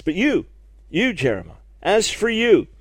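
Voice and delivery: YOU hit hard, set apart by pauses; emphatic. Acted. God singling out the prophet in the verse, emphatic. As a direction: point each "you" straight at the listener. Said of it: "is very emphatic".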